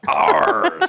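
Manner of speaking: high, loud pirate growl on Ours; a pirate's Arr on Ours. Retold or imitated. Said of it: "she's in her pirate voice".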